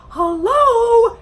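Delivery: exasperated hello. Real, not acted. Exasperated at date's outfit.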